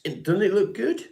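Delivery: mock proud. Showing off his combed-over hair.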